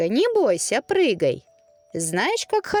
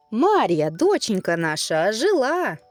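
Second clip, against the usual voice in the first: excited cry; 3 semitones higher than usual. Acted. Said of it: "вскрикнул тут Иван".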